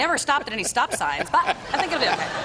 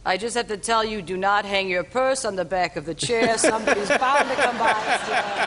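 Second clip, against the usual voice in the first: lightly voiced old man; a hint of an old man's measured warning; older gentleman. Older man warns guest about her purse, lightly imitated. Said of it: "I'm doing my impression".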